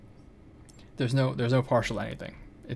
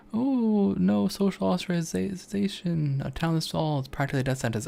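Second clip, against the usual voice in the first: quoting a friend; 7 semitones higher, 3 dB louder than usual. Retold or imitated. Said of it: "Lights is saying".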